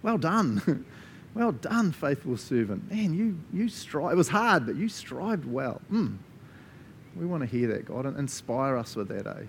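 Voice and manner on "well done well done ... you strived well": approving Jesus. Pretend. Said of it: "hear him go".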